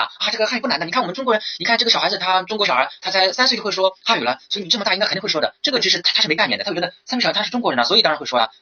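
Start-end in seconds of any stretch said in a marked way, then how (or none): 0.0-5.5 raised-pitch comforting tone; reassuring teacher. Pretend. Teacher comforting a student who finds Chinese hard, reassuring. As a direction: talk a worried student out of fear. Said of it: "你怎么样去安慰他".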